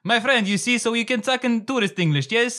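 high, loud broken tour-guide English; tourist English. Shown as a demonstration. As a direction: sell it like a pushy tour guide. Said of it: "Give us a sample".

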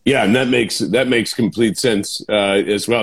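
audible swallows between words; talking right after a gulp of water; while drinking water. Real, not acted. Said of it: "I'm drinking water here and the swallow's coming through".

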